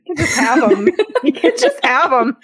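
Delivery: giggling while saying it twice; laughing. Real, not acted. Cracking up at the song's line, laughing. Amused reaction to whiskey song.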